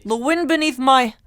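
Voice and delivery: hammed-up Irish attempt; bad Irish accent. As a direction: draw it out in mock Irish. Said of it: "Están burda mal, ¿verdad?".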